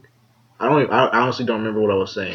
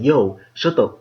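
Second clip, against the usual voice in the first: angry; 4 semitones higher, 4 dB louder than usual. Retold or imitated. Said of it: "I got mad".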